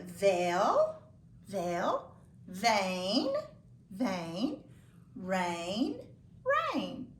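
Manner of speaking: slow, drawn-out words, each lifted at the end; repeat-after-me modelling. Shown as a demonstration. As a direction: model each word for pupils to echo. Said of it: "Repeat these after me".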